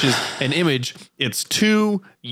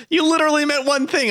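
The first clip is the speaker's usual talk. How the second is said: laughing; 13 semitones higher, faster than usual. Real, not acted. Laughing at friend's one-word answer.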